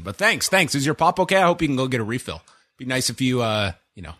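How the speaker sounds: lightly sarcastic, over-polite thanks; sarcastic politeness. Retold or imitated. Soaked moviegoer thanking the man who spilled pop, sarcastic. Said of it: "sarcastic, sarcastically".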